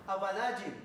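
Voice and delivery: abadayim read out as a model word, syllable by syllable. Shown as a demonstration. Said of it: "¿cómo se leería esa palabra?".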